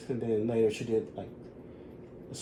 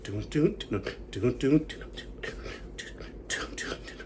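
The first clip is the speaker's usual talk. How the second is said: vocalized beat; 6 dB quieter than usual. Shown as a demonstration. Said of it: "it goes so fast".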